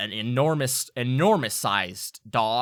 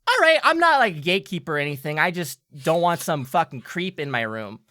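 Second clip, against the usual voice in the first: very high, loud and fast pixie rant; defensive pixie; 5 semitones higher, 8 dB louder, faster than usual. Acted. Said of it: "leans back and says".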